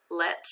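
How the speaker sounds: "Let" as one isolated syllable; a separate, stand-alone "Let"; syllable read-out. Shown as a demonstration. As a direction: sound out "Let" on its own. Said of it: "Let's read the first part".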